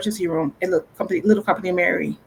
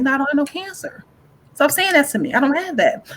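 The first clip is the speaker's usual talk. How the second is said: defiant denial; 6 semitones higher than usual. Retold or imitated. Rejecting the cancer word.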